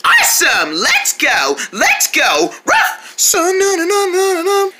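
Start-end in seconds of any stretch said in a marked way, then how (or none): 2.7-3.1 high, breathy little puppy yap; puppy barking. Acted. The pet puppy Tongues greeting the viewers with a yap. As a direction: yap like a tiny excited puppy. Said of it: "this is our pet puppy dog".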